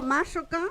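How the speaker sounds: Mashoka with the force on "Ma"; stress on first syllable. Shown as a demonstration. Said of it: "entonces acentuó la primera".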